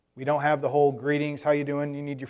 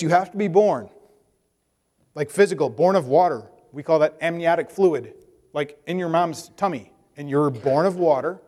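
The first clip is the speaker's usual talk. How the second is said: louder, patient teacher spelling it out; firm, loud explanation; emphatic explaining; 6 dB louder than usual. Retold or imitated. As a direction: drive the point home to a literal thinker. Jesus explaining to Nicodemus.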